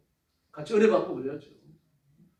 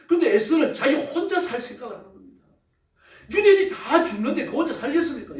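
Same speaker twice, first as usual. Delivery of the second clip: raised, louder preaching with laughs; fervent preaching; 7 semitones higher, 5 dB louder than usual. Acted. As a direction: drive the point home with heat. Preaching at full force.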